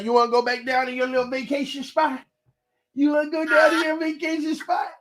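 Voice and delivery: high sing-song parent voice. Real, not acted. Asking baby in baby talk.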